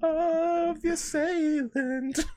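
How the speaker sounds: high, slow mock-dramatic narration; dramatic narrator voice. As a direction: drag it out like a melodramatic trailer.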